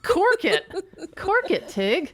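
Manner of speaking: very high snapping command; bossy shush. Retold or imitated. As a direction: snap it shut, high and bossy. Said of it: "the friend telling Tig".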